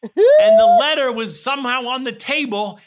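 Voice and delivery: high, excited retold explanation; loud Polish man. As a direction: act out a loud, animated Polish fan. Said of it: "He's loud".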